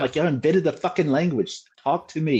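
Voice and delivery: high, loud comic rant; mock exasperation. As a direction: plead in mock outrage to be understood. Acted exasperated rant at roommate.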